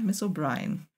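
soft resigned falling "Miss O'Brien."; quiet confirmation. A narrator's reading. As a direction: drop "Miss O'Brien." low and quiet as a final answer. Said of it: "murmelte Maudsley".

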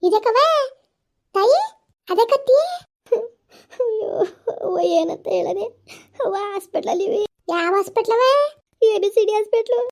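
frantic, high and loud questions; panicked high calls. Acted. Woman on the phone hearing bad news, frantic high questions.

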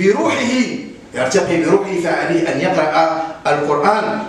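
usual speaking voice

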